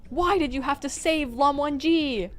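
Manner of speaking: high, loud furious cry; desperate angry shout; anguished accusation. Acted. Acted accusation while strangling.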